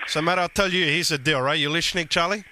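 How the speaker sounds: Guido prank character. Acted.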